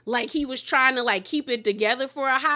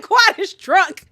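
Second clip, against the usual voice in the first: drawn-out, louder, higher declaration; slow loud exclaim; 8 semitones higher, 9 dB louder, slower than usual. Real, not acted. Host announcing Quad's state, slow and loud. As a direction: spell it out slowly to the room.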